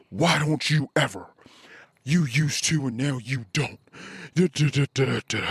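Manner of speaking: mocking his own whiny nagging voice. Husband mimics how he nagged his wife, mock nagging. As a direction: imitate a nagging complaint, lightly. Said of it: "complaining and bitching and probably nagging".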